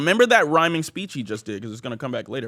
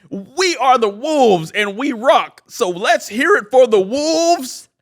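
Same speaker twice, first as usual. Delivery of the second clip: slow, higher-pitched chanted rhyme; hammed-up captain rousing the gym; pep rally speech; 7 semitones higher, 4 dB louder, slower than usual. Basketball captain speaking at the pep rally, slow hammed-up chant. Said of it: "and he goes".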